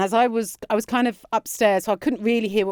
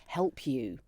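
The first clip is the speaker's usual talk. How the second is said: fake regretful excuse; 4 semitones lower, 10 dB quieter, slower than usual. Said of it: "I basically said to Chloe".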